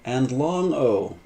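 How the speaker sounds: slow emphatic teaching stress on long. Shown as a demonstration. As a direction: stretch out the word long. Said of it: "small o".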